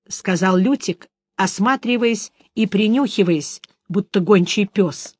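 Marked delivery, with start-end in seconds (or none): none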